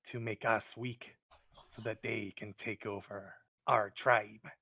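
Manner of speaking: lightly voiced wary kobold, deliberate phrasing; a touch of suspicious cave creature. Kobold tells the adventurer about goblin rivals, wary.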